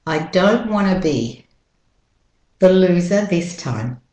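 British-Australian "loser" without final R; British-Australian model sentence; British-Australian accent. Shown as a demonstration. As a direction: link "wanna be" smoothly, British-Australian style. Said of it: "sound more like a native".

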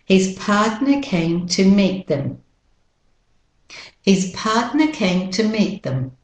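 British Australian "partner", weak "them"; no R in "partner", reduced "them", British Australian; British Australian pronunciation. Shown as a demonstration. Teacher models for copying, British Australian accent. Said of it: "the British Australian first".

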